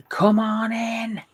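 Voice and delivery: high, slow, drawn-out mock scream; retold scream. Retelling the wife's defiant cry to the vampires, a slow high mock scream. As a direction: belt it out like a cornered woman daring them in. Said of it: "she ends up screaming".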